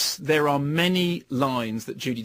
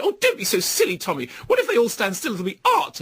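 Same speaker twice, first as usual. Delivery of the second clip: Judi Dench impression; 6 semitones higher than usual. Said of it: "then she does the".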